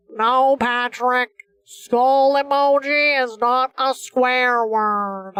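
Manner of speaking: nose held shut, Squidward voice; pinching nose. Shown as a demonstration. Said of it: "if I hold my nose to do my, do my Squidward impression".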